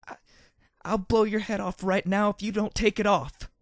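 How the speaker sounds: high, loud screaming rage; furious tearful shout. A narrator's reading. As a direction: scream it, breaking into tears. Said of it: "she shouted as she started to cry".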